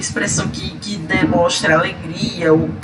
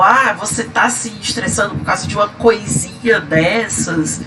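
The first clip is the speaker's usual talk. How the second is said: dismissive coisinha. Shown as a demonstration.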